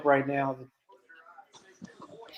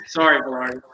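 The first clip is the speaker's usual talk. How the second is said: whisper; 3 semitones lower than usual. Real, not acted. Apologizing while laughing.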